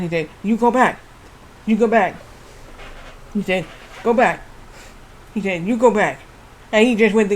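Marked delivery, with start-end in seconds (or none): 0.4-2.2 put-on light Indian-accented English, go said as koh, back as pack; Great Khali's accent. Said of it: "said it in his English accent". 4.0-4.4 put-on light Indian-accented English, go said as koh, back as pack; Great Khali's accent. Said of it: "said it in his English accent". 5.6-6.2 put-on light Indian-accented English, go said as koh, back as pack; Great Khali's accent. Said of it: "said it in his English accent".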